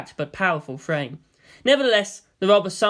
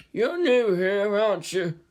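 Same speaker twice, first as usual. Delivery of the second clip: pitying; 5 semitones higher, slower than usual. A narrator's reading. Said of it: "in a pitying tone".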